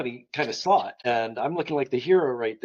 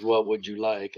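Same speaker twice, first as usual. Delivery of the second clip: lightly voiced deep butler, lower pitch; 5 semitones lower than usual. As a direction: offer a drink in a low, formal butler tone. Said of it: "he had the deepest baritone".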